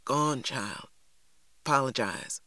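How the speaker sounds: put-on quiet, cracking old woman's voice. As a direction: urge her gently as the voice breaks. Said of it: "her voice cracking as she spoke".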